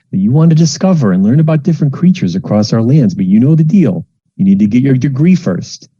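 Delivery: put-on high, fussing mother pleading with her child; a fretful mom talking her kid round; worried mom. Mom seeing her child off to university, fussing and high.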